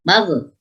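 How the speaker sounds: "magh-" stopped abruptly on the gh; "magh-" with no flowing ghain; ghain cut off. Shown as a demonstration. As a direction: cut the sound dead at the end of "magh-". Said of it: "nggak boleh".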